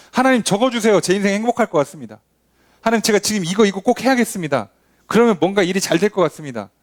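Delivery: naive begging prayer. Retold or imitated. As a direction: beg God for what you want. 우리의 떼쓰는 기도 흉내. (높고 빠르게 조르는 기도)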